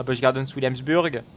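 Busch Gardens Williamsburg in a thick franchouillard French accent, every English sound made French; heavy French accent. Shown as a demonstration. Streamer jokingly says the park name to viewers in a franchouillard French accent. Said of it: "j'ai bien pris mon accent franchouillard".

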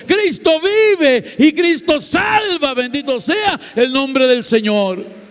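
high, ringing shouted praise; fervent high shouting of freedom in Christ; preaching at full force. Acted. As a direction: proclaim it to the whole church. Testimony climax preached at full force.

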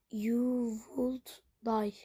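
"you would die" drawn out very slowly, each word separate; slow wrong phrasing. Shown as a demonstration. Gamer slowly spells out an English phrase to type.

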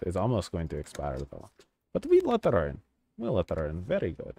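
playful fake Eastern European accent; put-on Eastern European accent. Inspector musing over a woman's passport, put-on Eastern European accent. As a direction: ham up an Eastern European border guard accent. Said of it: "gonna stop doing the accent".

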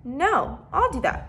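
put-on high, loud cry of a boy; shouting. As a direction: shout it out, claiming the job. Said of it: "Benny shouted".

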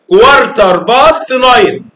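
slow, loud, stress on باست; modelling the answer. Shown as a demonstration. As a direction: say كوارتر باست slowly and loud, leaning on باست. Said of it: "ايوه كده".

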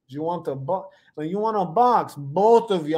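lightly put-on Russian accent; half-committed Russian accent; attempted Russian accent. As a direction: try a rough mock Russian accent, halting at first. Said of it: "said it with a Russian accent".

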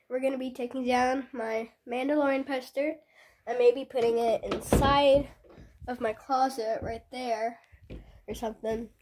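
blocked nose from a cold; stuffed up nose. Real, not acted. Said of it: "sorry if I sound, like, a little stuffed up".

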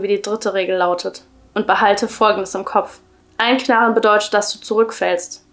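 measured, even story-reading voice; story narration. A narrator's reading. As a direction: read the creepy tale aloud, clearly and evenly. Reads a creepy story aloud.

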